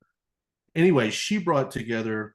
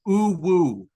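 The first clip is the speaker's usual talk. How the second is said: put-on cutesy baby talk; 4 semitones higher, 6 dB louder than usual. Shown as a demonstration. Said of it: "there's an uwu voice".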